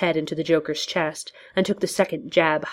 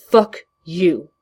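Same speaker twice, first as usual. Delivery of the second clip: harsh, louder and rough-edged; gruff curse; 5 dB louder than usual. Acted. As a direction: spit it at him. Batman curses the Joker.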